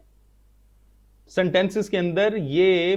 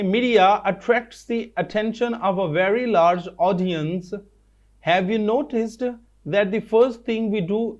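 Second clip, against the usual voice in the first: very slow, word by word reading aloud; slow dictation reading; much slower than usual. Shown as a demonstration. Teacher reading textbook line to students, slow and careful. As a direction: read it out slowly so the class can follow. Reads next sentence slowly.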